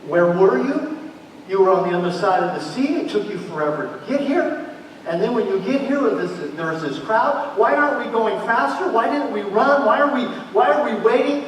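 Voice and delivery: impatient father. Acted. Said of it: "And he's thinking".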